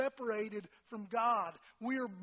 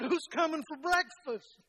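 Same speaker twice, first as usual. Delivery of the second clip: retold puzzlement, louder and higher; surprised question; 5 semitones higher, 6 dB louder than usual. Husband seeing six places set, surprised question. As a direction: ask it slowly, raised in mild astonishment.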